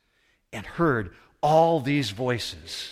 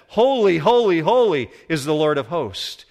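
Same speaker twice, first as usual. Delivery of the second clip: loud, high scripture cry; calling out; 5 semitones higher, 8 dB louder than usual. Acted. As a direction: open high and loud, then ease down. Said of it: "one called out to another and said".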